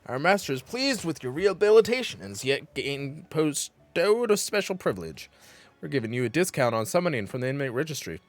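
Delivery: lightly stern jailer reading rules; mock warden voice. Gamer voicing the prison warden, mock stern. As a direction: lecture the inmate like a strict warden.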